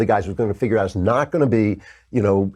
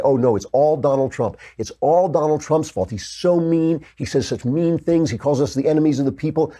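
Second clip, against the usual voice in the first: higher, mocking whine of offended reporters; a sarcastic pundit mimics the media's whining, mocking and higher; mocking whiny media; 5 semitones higher than usual. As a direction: lampoon the media's complaints in a higher voice. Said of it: "the media is going nuts because they say".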